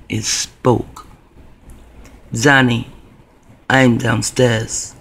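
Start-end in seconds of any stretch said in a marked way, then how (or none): 2.3-4.9 creepy raspy voice. Retold or imitated. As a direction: drag it out like a lurking thing. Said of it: "That creepy goddamn voice".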